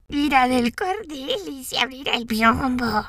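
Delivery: lobo fingiendo dulzura, algo agudo; voz melosa de lobo disfrazado; lobo endulzando la voz. A narrator's reading. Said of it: "procurando endulzar la voz". (lobo con voz endulzada)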